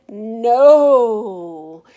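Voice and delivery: a loud, flat refusal; stubborn loud no. Acted. Stephanie refusing her mom's ponytail offer, loud and stubborn. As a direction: plant your feet and refuse.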